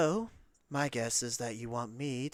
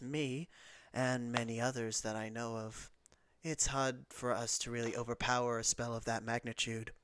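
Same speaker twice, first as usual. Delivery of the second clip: lightly voiced regretful queen, softer; Raven Queen; 5 dB quieter than usual. Queen explaining a banishing spell's limits, lightly acted, hushed. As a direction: speak softly, a measured touch of regal regret. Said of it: "the Raven Queen will then respond with".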